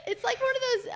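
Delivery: loud helpless laugh into words; crying with laughter. Real, not acted. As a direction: laugh till you can barely speak.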